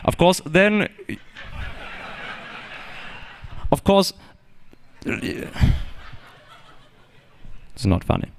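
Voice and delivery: lecturing in a put-on German accent; mock German professor; German-accented lecture; fake German accent. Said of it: "I am not in fact German".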